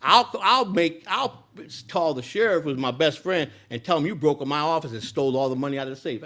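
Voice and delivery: put-on threatening old boss. Owner threatens to frame the speaker, high and loud. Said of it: "He told me".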